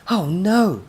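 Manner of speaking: high, loud cry of dismay; alarmed cry. A narrator's reading. Professor sees the robot charging, alarmed cry.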